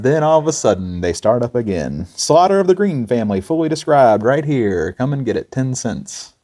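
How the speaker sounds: mock street hawker cry; hawker calling out. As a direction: shout the wares like a street seller. Hawkers selling confessions in crowd.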